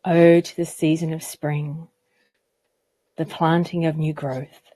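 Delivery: measured recital with long pauses between phrases; unhurried, evenly pitched poetry reading; poem reading. Acted. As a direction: read your own poem aloud, letting each line settle. Reads own poem aloud.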